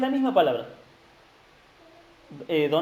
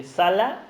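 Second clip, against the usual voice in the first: sala with the final A stressed; stress on second A; 3 semitones higher, 4 dB louder than usual. Shown as a demonstration. Teacher spelling out a Hebrew word for note-takers, final-A stress on "sala". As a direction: land on the last A of "sala". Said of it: "con acento en la A, en la segunda A".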